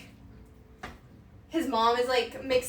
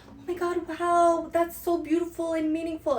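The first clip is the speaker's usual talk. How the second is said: higher, swooning mock awe; gushing French reader; 5 semitones higher than usual. Imitating French people reading her tattoo, gushing. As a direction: gush like the words moved you deeply. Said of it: "they're like".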